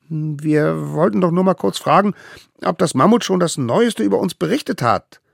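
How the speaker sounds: put-on high, eager kids' voice; small and innocent; little wild ones. A narrator's reading. Little wild ones pleading with the judges, high and eager.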